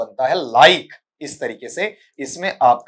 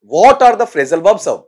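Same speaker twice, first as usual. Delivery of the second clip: slow, louder read of the faulty question; mock reading; 4 semitones higher, 7 dB louder, much slower than usual. Shown as a demonstration. Teacher reading back a student's badly framed question. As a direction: read their question back slowly, half mocking. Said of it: "बेटा क्या लिख दिया".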